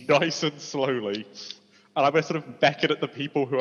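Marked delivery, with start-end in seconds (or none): 0.1-1.2 slow and soothing. Acted. Gunman calming cultists, slow soothing voice. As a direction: ease them back calmly.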